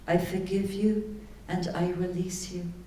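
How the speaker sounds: gentle affirmation. Shown as a demonstration. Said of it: "you say to them".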